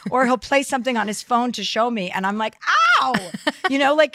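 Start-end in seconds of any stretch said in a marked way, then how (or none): 3.0-3.3 drawn-out comic cry of pain; exaggerated long "ow"; mock pained "ow". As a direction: yelp as if the volume hurts. Acted reaction to blaring phone.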